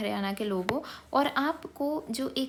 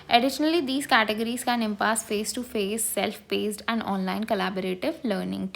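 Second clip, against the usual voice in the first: reading a definition very slowly, word by word; slow dictation reading; much slower than usual. Acted. Teacher slowly dictating a textbook definition to students. Reads English definition aloud.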